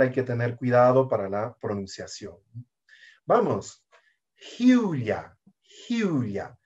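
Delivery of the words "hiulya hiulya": "hiulya" opening on a soft Spanish j. Shown as a demonstration. Teacher showing the letter H, soft J sound. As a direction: breathe a soft j to start "hiulya". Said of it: "La H suena como una J suave".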